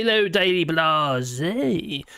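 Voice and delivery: slow, stretched Yorkshire hello; playful put-on Yorkshire, very slow; Yorkshire accent greeting. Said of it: "I love your Yorkshire accent".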